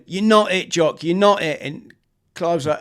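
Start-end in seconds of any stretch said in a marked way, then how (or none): 0.0-1.6 urgent yell. Retold or imitated. Yelling at panicking mate.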